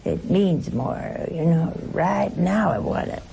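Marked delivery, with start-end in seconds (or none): 1.9-3.2 a light Southern accent on "Right now I want it"; preacher shows how a Southern speaker says it, lightly Southern; Southern drawl. Shown as a demonstration. Preacher to congregation, mock Southern impatience, understated Southern accent. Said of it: "when you say it southernly".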